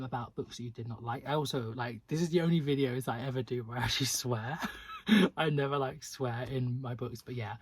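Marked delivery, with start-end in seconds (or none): 4.6-5.3 short, high, loud laugh; quick burst of laughter at yourself; brief high cackle; real laugh. Real, not acted. Laughs after admitting swearing.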